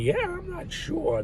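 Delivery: mock unsure believer. Mock answer of a doubter.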